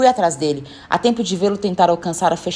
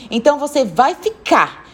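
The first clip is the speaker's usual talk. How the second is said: slower, higher, emphatic command; firm final order; 5 semitones higher, slower than usual. Acted. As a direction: land hard on "vai ficar". Woman's final order to boy. (ordem firme e pausada)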